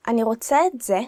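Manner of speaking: emphasis landing on זה; stress on זה. Shown as a demonstration. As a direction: lean on the word זה at the end. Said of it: "you should emphasize the word".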